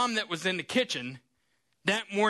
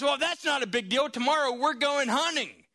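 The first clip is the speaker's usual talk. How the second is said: a hint of a gruff, dismissive father; lightly voiced dad shrugging it off, higher; brushing-off dad; 5 semitones higher than usual. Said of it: "dads are really sensitive at times".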